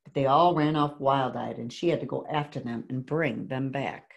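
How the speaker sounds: put-on measured read-aloud to children; story narration. A narrator's reading. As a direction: read a picture book to a class, clearly. Reads picture book aloud.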